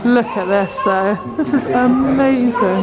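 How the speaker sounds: talking through a face mask; muffled under a mask. Real, not acted. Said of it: "Sorry if I'm muffled. I'm wearing a mask".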